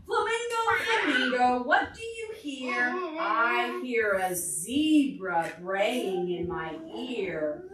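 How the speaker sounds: singsong refrain, a bit slow; storybook chant; reading to children. Acted. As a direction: chant the book's refrain for toddlers. Reads picture book to children.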